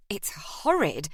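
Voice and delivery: slow, breathy whisper of disgust. Acted. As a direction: whisper it, still recoiling from the brandy. Maddie after coughing on brandy.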